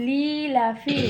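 put-on loud, clear model for the child; to someone hard of hearing. Shown as a demonstration. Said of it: "জোরে বলো, শুনতে পাই না তো".

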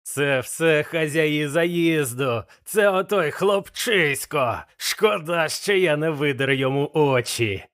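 slow, raging old pirate, lightly voiced; blind Pew exclaiming. Blind Pew rages at the innkeepers and the boy, slow angry cry. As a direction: spit out the blame in slow fury. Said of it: "вигукнув сліпий П'ю".

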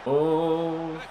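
drawn-out wail building to a shout; dismayed wail. Real, not acted. Player watching a goal go in, building dismayed wail. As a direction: climb from moan to high, loud cry.

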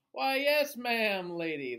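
high, loud mock-polite skeleton; bow and answer cheekily.

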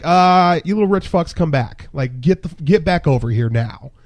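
mildly indignant retold call-back. Server calling the departing group back to pay, retold indignant call.

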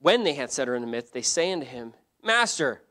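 emphatic, measured Bible reading aloud; scripture reading. Real, not acted. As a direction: proclaim the verses to a congregation. Reads scripture aloud to congregation.

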